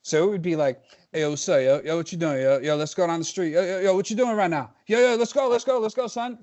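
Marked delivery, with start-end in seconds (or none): 1.1-6.4 put-on old New Jersey street slang, louder and higher; rowdy Jersey street talk, calling a buddy out; hammed-up Jersey street kid yelling yo; street slang accent. Shown as a demonstration. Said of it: "that's the accent that we had".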